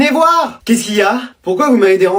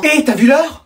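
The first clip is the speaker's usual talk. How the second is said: scolding call; 4 semitones higher, slower than usual. Acted. Mom catches kid up late.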